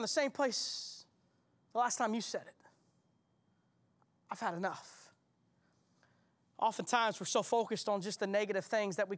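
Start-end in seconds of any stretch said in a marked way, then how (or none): 4.3-5.1 weary sigh. Acted. Hearer's own weary words echoed.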